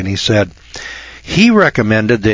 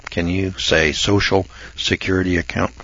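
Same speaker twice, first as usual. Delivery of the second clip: put-on softer, lower, coaxing like to children; soft kids-show teacher voice; 4 semitones lower, 6 dB quieter than usual. Shown as a demonstration. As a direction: coax it gently, patronizing. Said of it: "boys and girls".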